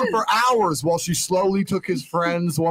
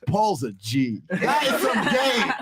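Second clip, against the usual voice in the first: laughing admiration; 3 semitones higher, slower than usual. Retold or imitated. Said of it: "would be sitting there saying".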